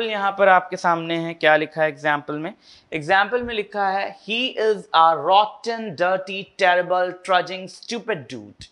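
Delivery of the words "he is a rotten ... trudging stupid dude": slow, word-by-word harsh delivery; harsh cacophony. Shown as a demonstration. Teacher demonstrating cacophony to students, harsh and deliberate. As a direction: spit out each insult separately, falling off at the end. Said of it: "ये जो मैं बोल रहा हूँ ना, तो यहाँ पर ये सुनने में कितना हार्श".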